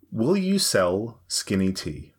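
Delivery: "Will you sell skinny tea?" very slow, meant as a statement but still rising like a question; read as a statement. Shown as a demonstration. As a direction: drag it out slowly, trying to make it sound flat. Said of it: "read it like a statement for us".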